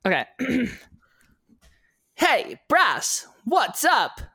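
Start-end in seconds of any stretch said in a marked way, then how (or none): 2.1-4.2 higher, put-on cheerful greeting voice; acted voice-actor greeting. Shown as a demonstration. Friend performing a podcast bit on request, bright acted greeting. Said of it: "the one you just acted there".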